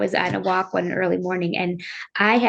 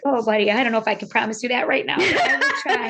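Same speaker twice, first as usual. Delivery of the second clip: retold promise breaking into a laugh; quick, rising into laughter by the end; laughing reply; 3 semitones higher, faster than usual. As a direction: let a laugh creep into the words. Retells tearful promise, laughing.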